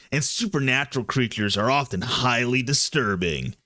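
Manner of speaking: lightly put-on action-hero read; a touch of cool trailer voice. Reading a content warning to a co-host, lightly cool action voice. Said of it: "your cool, awesome action voice".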